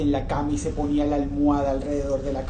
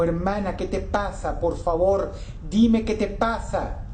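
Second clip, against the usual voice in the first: exclaiming plea; 4 semitones higher than usual. Acted. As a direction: cry out to her, begging. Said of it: "y exclamó". (exclamación suplicante, más agudo y fuerte)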